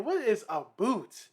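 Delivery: slow, drawn-out puzzlement; slowly spelled-out bafflement; puzzled question. Retold or imitated. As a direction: stretch it out, questioning the word "boot". Retold baffled question about the word.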